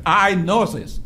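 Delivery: usual speaking voice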